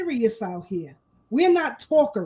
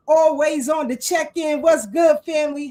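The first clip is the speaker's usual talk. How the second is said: hyped shout-out; 2 semitones higher, 4 dB louder than usual. Real, not acted. Hyped shout-outs to listeners.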